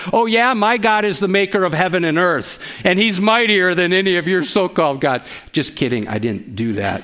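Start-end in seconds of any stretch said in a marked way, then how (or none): 0.1-5.2 playful, half-restrained yell; mild mock yell. Preacher imagining a retort to another driver, mild mock yell. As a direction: pretend to holler a boastful comeback. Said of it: "and yell".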